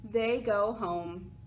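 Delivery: lively picture-book read-aloud; reading to children. A narrator's reading. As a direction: read it to little kids, with bounce.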